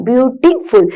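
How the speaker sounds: ബ്യൂട്ടിഫുൾ slowly split, with a break before the last syllable; teacher's slow, segmented ബ്യൂട്ടിഫുൾ. Shown as a demonstration. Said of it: "ഒരു ബ്രീത്തിലല്ല നിങ്ങൾ ആ word".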